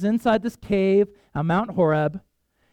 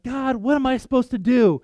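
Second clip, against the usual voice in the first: raised, mildly exasperated plea; acted pleading prayer; 5 semitones higher than usual. Someone kneeling begs God for direction, acted pleading. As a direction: plead upward as if at a loss.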